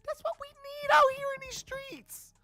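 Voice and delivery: very high, loud mock-ecstatic yell; hyped cheer. Fan retelling Groot's return, hammed-up excited high yell. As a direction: whoop it up like a hyped fan reliving it. Retold cheer at hero coming back.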